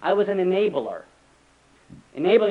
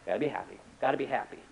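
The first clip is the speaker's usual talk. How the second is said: mock parent; 6 semitones lower, 11 dB quieter, faster than usual. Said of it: "What do they say?".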